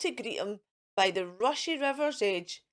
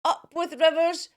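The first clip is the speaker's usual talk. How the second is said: mild hooting cheer; 4 semitones higher, 6 dB louder than usual. Acted. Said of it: "And they hooted".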